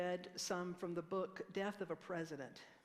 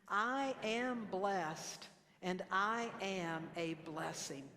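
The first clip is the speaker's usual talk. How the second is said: slow affirmation; much slower than usual. Shown as a demonstration. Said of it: "Would you say that with me?".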